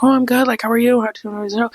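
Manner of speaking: retold polite enthusiasm; friendly reply. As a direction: imitate a cheery greeting in return. Acting out his friendly reply.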